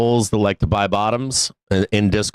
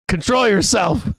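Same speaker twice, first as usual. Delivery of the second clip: pitched way up in disbelief at the dogs; shocked scolding; 12 semitones higher than usual. Retold or imitated. Dog owner scolds the dogs, high and incredulous.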